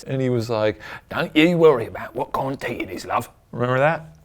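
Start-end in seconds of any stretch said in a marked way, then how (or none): 1.1-3.3 lightly voiced English accent; a hint of a soothing English villain. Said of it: "sorry to all the English people".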